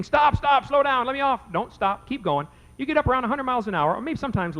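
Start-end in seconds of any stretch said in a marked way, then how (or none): 0.0-1.4 higher, louder, playing scared kids begging; mock panicked scream. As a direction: act out children screaming to stop the ride. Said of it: "they're gonna be screaming".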